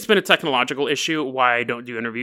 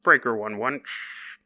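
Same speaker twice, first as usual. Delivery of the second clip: radio dispatcher; slower than usual. Retold or imitated. Nine one one operator calling cops over radio. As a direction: talk like a crackly CB radio call. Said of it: "calls the radio".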